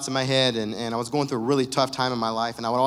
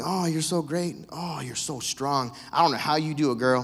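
gushing commenter; 3 dB quieter than usual. Retold or imitated. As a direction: coo like an over-sympathetic friend. Mocking sympathetic Facebook comments.

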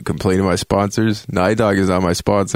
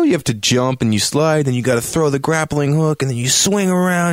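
excited; 7 semitones higher than usual. Real, not acted. Excited retelling of game sequence.

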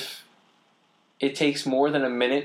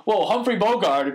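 much higher, louder, slow Brooklyn bro; Brooklyn accent; 9 semitones higher, 5 dB louder than usual. Retold or imitated. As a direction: gush about the film star in a Brooklyn accent. Imitating film fan friends.

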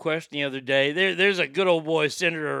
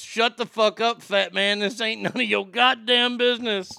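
pretend response; 4 semitones higher than usual. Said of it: "the response is".

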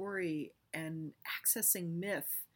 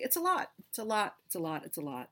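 fading repetition; faster than usual. Acted. Repeats phrase, each take fainter.

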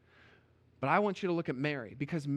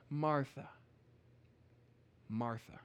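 soft, lower, gentle naming; calming voice; 3 semitones lower, 5 dB quieter than usual. Retold or imitated. Jesus calming an upset Martha, soft and gentle. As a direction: settle her down gently. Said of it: "in what I'm gonna assume was a very calming voice".

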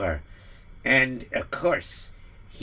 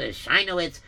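American accent; 2 semitones higher than usual. Shown as a demonstration. Narrator shows the American pronunciation, American accent. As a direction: say "Sheinowitz" the American way. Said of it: "If you say with American accent".

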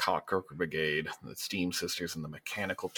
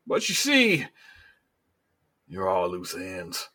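regretful menace; 3 semitones higher than usual. Acted. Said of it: "Governor Bordeaux stands up and he goes".

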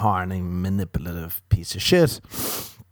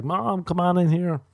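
calling mom; 9 semitones higher than usual. Retold or imitated. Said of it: "And he'd be like".

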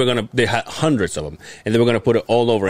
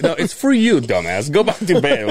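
mock exasperated yell; 10 semitones higher than usual. Voicing family telling him off.

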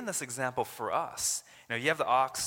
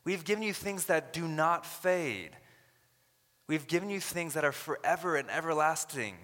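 voicing Paul; 6 semitones higher than usual. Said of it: "He's saying".

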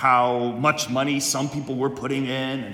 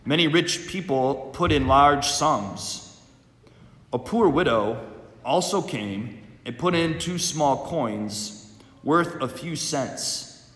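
solemn liturgical proclamation; Gospel reading. Acted.

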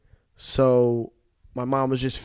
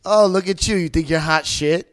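mocking mom; 3 semitones higher, 6 dB louder than usual. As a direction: tease him on his wedding day. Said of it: "she goes".

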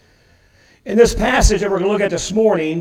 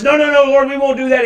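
mock protest; 6 semitones higher, 6 dB louder, faster than usual. Simon protesting to Jesus.

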